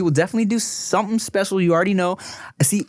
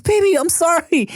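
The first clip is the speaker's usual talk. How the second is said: high-pitched doting parent voice; retold pleading apology; 13 semitones higher, 4 dB louder than usual. Dad to his crying daughter, retold pleading apology. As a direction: coo it high to a small child.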